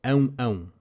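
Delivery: a light "ão, ão" like a dog barking; dog bark imitation. Shown as a demonstration. Teacher mimicking a dog for learners, light barking. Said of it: "the Portuguese version of the sound a dog makes".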